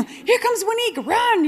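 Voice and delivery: put-on high, loud taunting kid voice; mocking schoolkids. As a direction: jeer like a schoolyard bully. Kids mocking her at school.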